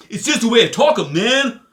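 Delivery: hammed-up Southern accent. Slips into the Southern voice.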